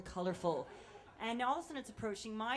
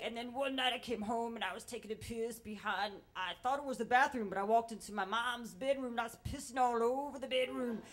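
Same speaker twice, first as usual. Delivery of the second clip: mullet guy, boasting; 5 dB louder than usual. Retold or imitated. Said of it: "one of the mustache mullet guys".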